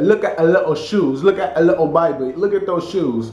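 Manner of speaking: imitated funny guy's attempted British accent; bad British accent. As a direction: do a poor mock British accent. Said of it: "trying to talk with a British accent".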